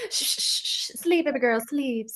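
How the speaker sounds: hushed soothing whisper; whispering over a crib. Retold or imitated. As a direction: shush a baby to sleep. Mock lullaby hush.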